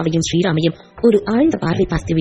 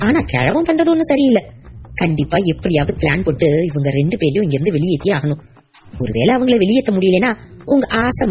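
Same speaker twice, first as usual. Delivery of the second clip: scheming wife. Acted. Wife alone schemes to throw grandfather out, sly. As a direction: plot it out with a sneer.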